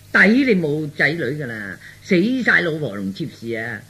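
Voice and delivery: mock tirade with punched openings; feigned mad scolding. Son faking madness scolds father for show, mock rant. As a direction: play the madman berating an old man. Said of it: "嗱，我要鬧你".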